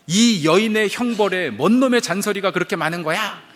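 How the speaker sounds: acted angry telling-off; devil's scolding yell. Devil rebuking the man in hell, scolding yell. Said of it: "이렇게 소리를 쳤다는 거예요".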